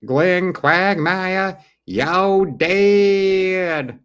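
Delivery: very high, loud, slow drawn-out shout; hyped shout. Real, not acted. Hyping Quagmire to the viewers, high, loud and drawn out. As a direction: stretch every word out in delight.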